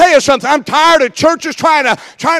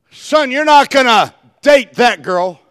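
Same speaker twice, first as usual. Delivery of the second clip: firm mom warning; slower than usual. Retold or imitated. Mother forbidding son to date girl, slow firm shout.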